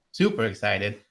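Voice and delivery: ordinary delivery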